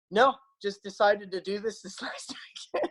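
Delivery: offhand reply breaking into laughter; retold quip dissolving into a chuckle; amused retelling. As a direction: let the laugh take over as you finish. Laughs telling his own casual reply.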